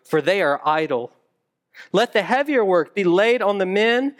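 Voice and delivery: a hint of a stern Pharaoh reading; lightly voiced harsh taskmaster. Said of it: "the voice of the taskmaster that the Israelites heard".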